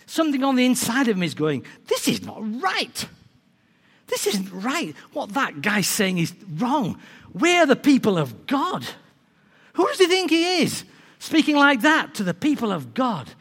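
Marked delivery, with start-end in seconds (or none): 1.9-13.3 held-in annoyance rising to high indignation; growing annoyance. Retold or imitated. David reacts to the giant's insults, acted growing annoyance. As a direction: start contained, then build to affronted protest. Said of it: "he gets annoyed".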